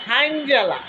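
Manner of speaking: হাইনজালা with an opening h, pitch falling at the end; Cumilla dialect word. Shown as a demonstration. Telling viewers the Cumilla word for evening, dialect demo. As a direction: present হাইনজালা as a local word, falling tune. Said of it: "কুমিল্লার ভাষায় বলে".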